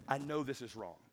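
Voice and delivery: low, soft self-talk; understated voice of conscience; quiet inner resolve. Acted. Acting out inner battle with temptation.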